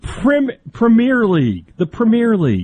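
mock British pronunciation of Premier League; put-on English accent on Premier; English twang. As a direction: say Premier League like a posh Brit. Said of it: "you tried to say it with a little English twang".

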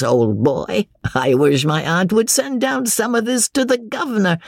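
lightly voiced knowing drinker; tipsy young James. Young man refusing to be drawn by his cousin, lightly tipsy. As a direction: rebuff him playfully over the port.

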